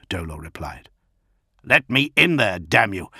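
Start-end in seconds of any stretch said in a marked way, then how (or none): 1.7-3.1 raised, forceful demand; angry demand. Acted. Gilliman demanding his guards let him in, angry. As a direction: force your way in with the words.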